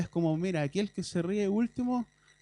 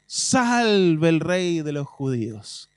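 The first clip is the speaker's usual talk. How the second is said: mocking salute; 2 semitones lower, 7 dB louder, much slower than usual. Soldiers mock Jesus in reading.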